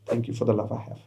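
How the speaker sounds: whisper-close gratitude to yourself; quiet grateful affirmation. Shown as a demonstration. Coach leading viewers in gratitude, quiet and thankful. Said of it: "start saying this five times".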